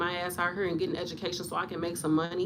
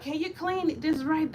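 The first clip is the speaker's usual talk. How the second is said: fussy patient lady; 7 semitones higher than usual. Retold or imitated. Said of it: "the ladies that be like".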